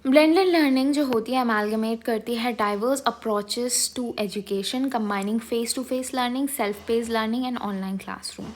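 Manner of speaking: reading a definition very slowly, word by word; slow dictation reading. Acted. Teacher slowly dictating a textbook definition to students.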